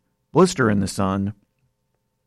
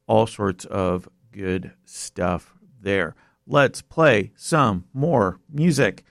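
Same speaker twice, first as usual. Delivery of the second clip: strange voice; much slower than usual. Real, not acted. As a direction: drag the words out slowly, pitched up. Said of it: "Not sure why I'm talking like that".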